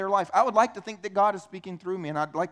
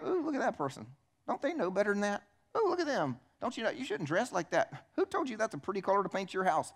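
catty mock disapproval, pitch jumping up on the exclamations; judgmental onlooker; 2 semitones higher, 5 dB quieter than usual. Preacher mimics people judging passers-by, mock disapproving. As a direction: gossip about strangers in an exaggerated judging voice.

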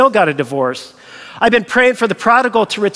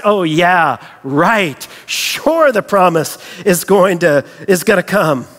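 dripping with sarcasm; cynical, mocking disbelief; sarcastic; 2 semitones lower than usual. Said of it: "a cynical laughter that is dripping with sarcasm".

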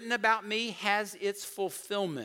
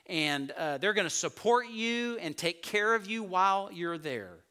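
voicing Jesus; 4 semitones higher, 4 dB louder than usual. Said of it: "he said".

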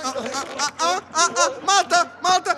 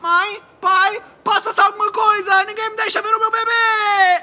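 anxious pleading; 3 semitones higher, 4 dB louder than usual. Acted. Mother panics about baby.

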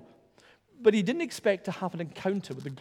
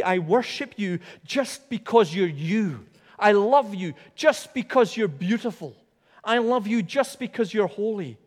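adoring angels; 4 semitones higher than usual. Retold or imitated. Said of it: "these angels come and say".

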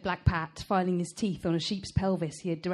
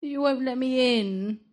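higher, drawn-out self-pitying complaint; sad dog; 5 semitones higher, 3 dB louder than usual. A narrator's reading. Dog to Esther who bars him, sad whining. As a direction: draw it out, very sorry for yourself. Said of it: "such a sad dog".

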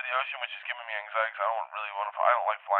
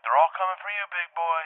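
high, raised-voice taunting call; 6 semitones higher, 3 dB louder than usual. Retold or imitated. Drone pilot calling to the dreamer about the birds, calling out. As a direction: call it out high and drawn to him. Dream guy calls out to teller.

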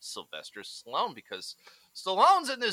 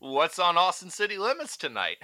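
mock comment voice; 9 semitones higher, 6 dB louder than usual. Reading mocking comment aloud.

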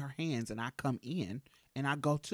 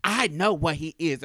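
snide; 8 dB louder than usual. Retold or imitated. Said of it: "she was like".

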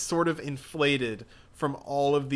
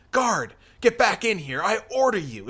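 a touch louder, ordering; lightly voiced commanding priest; 7 semitones higher, 5 dB louder than usual. The priest orders the guard back inside.

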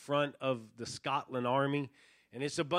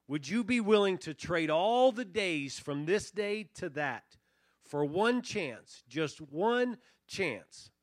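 William Wallace; 3 semitones higher than usual. Acted. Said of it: "William Wallace responds".

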